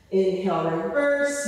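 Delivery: breathless cue after effort; winded, catching breath. Real, not acted. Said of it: "You can hear I'm out of breath".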